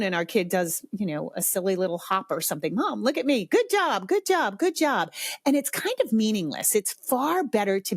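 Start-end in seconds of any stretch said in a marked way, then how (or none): 2.7-5.1 high, repetitive empty praise; absent-minded high-pitched cheer; distracted cheerleading. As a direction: rattle off praise on autopilot, pitched up. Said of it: "We say it when we're distracted".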